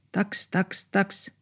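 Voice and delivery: high, sharp little dog yaps; dog bark. A narrator's reading. Little dog barks at two dogs outside, high yaps. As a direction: yap like a tiny dog. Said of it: "se haukkui".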